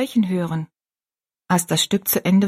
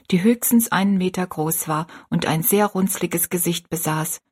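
plain reading voice

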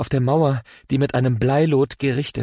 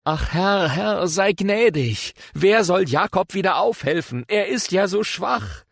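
higher, slow, begging plea to the Lord; pleading prayer; 6 semitones higher than usual. Acted. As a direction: plead slowly, voice raised in distress. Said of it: "sprach ich". (flehend, höher und langsam)

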